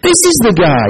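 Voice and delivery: alarmed Philistines. Retold or imitated. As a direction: point him out in alarm. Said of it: "they're remembering".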